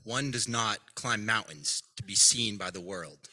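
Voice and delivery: measured mock-profound delivery, falling at each end; inspirational quote. Friend quoting Hayden's sudden wisdom on a drive, mock-inspirational. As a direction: pause grandly between halves of a wise saying. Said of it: "just some inspirational quote".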